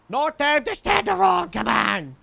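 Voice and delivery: loud, high yell to get moving; urgent shout. Acted. Calling out to someone standing around, urgent shout. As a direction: shout it out to hurry them along.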